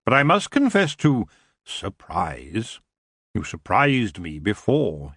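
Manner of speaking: a hint of a lazy, regal king; the elf king greeting Tiffany with cool amusement.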